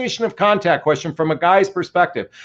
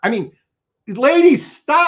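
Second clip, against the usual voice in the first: frustrated yell, higher pitch; 7 semitones higher, 3 dB louder than usual. Speaker lectures women listeners, saying they have to scream here: frustrated yelling. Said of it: "I'm I got to scream here".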